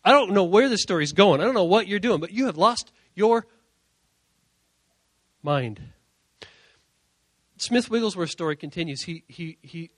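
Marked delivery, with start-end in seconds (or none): 0.0-5.8 halting, disbelieving challenge; incredulous onlookers. Retold or imitated. Funeral crowd to the preacher, stunned incredulity. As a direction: break it up for sheer disbelief. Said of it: "looking at Smith Wigglesworth, like".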